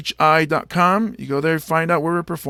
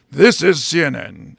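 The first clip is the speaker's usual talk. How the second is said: James Earl Jones; 4 dB louder than usual. Acted. Comic envying a famous voice, announcer impression. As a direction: imitate a commanding network announcer. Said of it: "Because James Earl Jones has ruined me".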